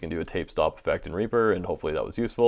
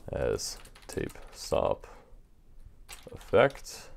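tape stopping; 6 semitones lower, 7 dB quieter, much slower than usual. Shown as a demonstration. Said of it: "we just wanna render this".

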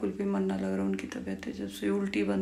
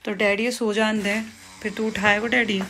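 stern scolding; 4 dB louder than usual. Real, not acted. Mother scolding son at bedtime.

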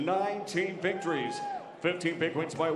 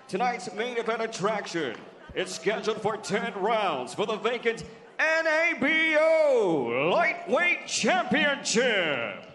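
building announcer shout; 5 semitones higher, 4 dB louder than usual. Acted. Announcer builds to title name.

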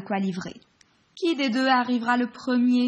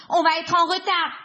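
hurried urging; 7 semitones higher, 5 dB louder than usual. Acted. Cheetah hurries others.

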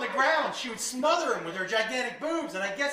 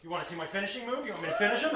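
menacing offer; 3 semitones lower, 6 dB quieter, much faster than usual. Retold or imitated. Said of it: "and she goes".

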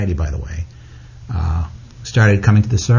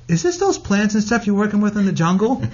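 a higher, curious mother voice; imitating his mother; 9 semitones higher than usual. Mother guessing the jungle plants caused the tears, higher gentle voice. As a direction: ask it like a knowing, gentle mom. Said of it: "And she goes".

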